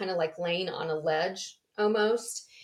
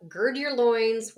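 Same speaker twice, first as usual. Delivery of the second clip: mock urging; 3 semitones higher, 6 dB louder than usual. Repeats angel's urging.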